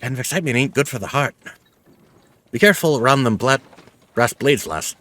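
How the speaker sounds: put-on peddler's rustic British accent; homely British-accented old trader. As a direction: warn the lass in a folksy British accent. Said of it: "given this guy for an accent".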